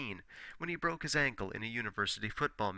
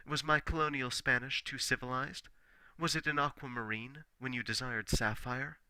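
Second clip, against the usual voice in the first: declaimed love poem; 2 semitones higher than usual. Acted. Poet declaiming his song to Nobia, theatrical and grand. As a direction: proclaim it like a bard serenading.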